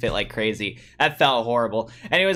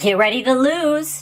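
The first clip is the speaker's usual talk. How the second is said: put-on woman's voice through voice changer, higher pitch; 11 semitones higher, 4 dB louder than usual. Voicing a character challenging Joey to a duel: Mai Valentine voice. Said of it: "my Valentine's voice".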